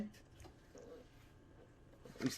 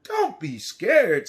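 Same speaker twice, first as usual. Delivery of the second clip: slow, gentle reassuring; 3 dB louder, much slower than usual. Acted. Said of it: "says the lion".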